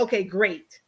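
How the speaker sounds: low mock brush-off; imitated dismissiveness. Panelist quotes the host's reply back at him, imitated dismissiveness. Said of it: "It's dismissing her like it's your wife".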